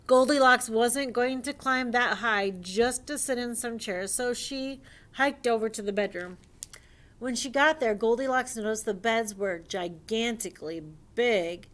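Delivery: animated, emphatic read-aloud; lively storyteller lifting key words; storybook reading. Acted. Reading a dinosaur fairy tale to young friends, animated storybook reading.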